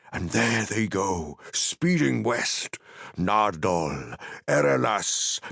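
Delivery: name each hill as it lights, in wonder; Gandalf naming beacons. Acted. Gandalf listing the beacon hills to Pippin, lightly voiced awe.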